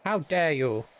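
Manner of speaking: high, hammed-up wounded artist; mock-offended Anish Kapoor. Streamer parodying artist who copyrighted a color, mock indignation. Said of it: "Because I'm Anish Kapoor".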